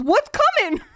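put-on high, loud whiny kid voice; imitating Pete Davidson telling his mom he's gay; Pete Davidson impression. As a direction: play Pete as a whiny eleven-year-old pleading with mom. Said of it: "Let's hear your Pete Davidson".

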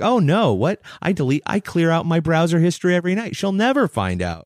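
high, quick, mock-panicked babble; panicked partner-hiding voice. Speaker imitating someone hiding secrets from their partner, mock panic. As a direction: rattle it off like a guilty spouse covering tracks. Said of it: "You're like".

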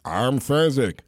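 slow giant; Fezzik voice. Retold or imitated. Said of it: "they would go".

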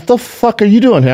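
high surprised outburst; startled LeBron. Retold or imitated. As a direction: blurt it out, caught off guard. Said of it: "LeBron goes".

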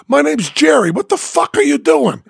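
high, aggressive questioning; angry demand. Retold or imitated. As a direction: demand an answer, menacing. Biker demands an answer.

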